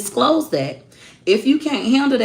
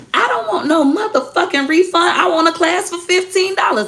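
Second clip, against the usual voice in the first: high, loud mock outrage from an angry customer; mock angry rant; 13 semitones higher, 5 dB louder than usual. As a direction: mimic the furious lady, squeaky and loud. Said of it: "One lady, she was like".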